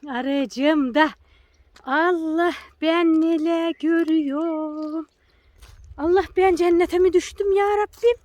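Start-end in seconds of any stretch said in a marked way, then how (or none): 1.8-8.2 amazed. Real, not acted. Amazed at spring flowers.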